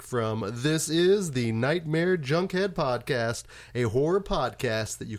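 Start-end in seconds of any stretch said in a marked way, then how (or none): 0.5-3.4 announcer voice. Acted. Podcast title announced in show intro.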